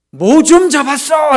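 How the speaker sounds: high, drawn-out shout across distance; loud long-range call, stretched out. Acted. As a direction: holler it to men far out on the water. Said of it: "이제 막 소리치는 거죠".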